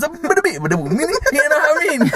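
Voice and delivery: high, slow, laughing through it; can barely get it out for laughing. Real, not acted. Cracking up telling his mate, slow.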